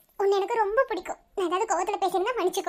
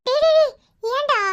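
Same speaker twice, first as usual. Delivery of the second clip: high, loud repeated call to stop; raised voice, reining someone in; alarmed scolding; 6 semitones higher, 5 dB louder than usual. Acted. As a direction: cut him off sharply and urgently. Cutting off a taunting student.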